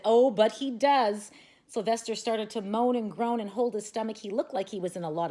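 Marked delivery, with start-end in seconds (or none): 0.1-1.3 loud, slow, panicked insistence. A narrator's reading. Boy panicking at the vet, loud and slow. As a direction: blurt it out in a panic. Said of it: "Stevie panicked and said".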